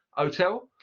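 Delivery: hotel said as otel; dropped H. Shown as a demonstration. Teacher repeating the Cockney hotel. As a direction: drop the H, otel. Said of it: "examples of that in a Cockney accent".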